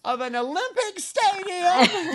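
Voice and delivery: high, slow, half-laughing half-crying wail; frantic laughing panic. Retold or imitated. Retelling her panic at the screen guy, high laughing wail. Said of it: "I was like".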